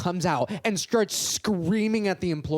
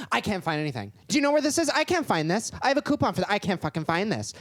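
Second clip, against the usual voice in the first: mock entitled shopper; 4 semitones higher, faster than usual. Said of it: "she's, like, screaming".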